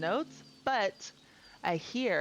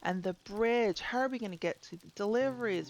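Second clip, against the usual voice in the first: a hint of an outraged merchant fretting over losses; upset villager; 3 semitones higher than usual. Reads an upset villager's lines.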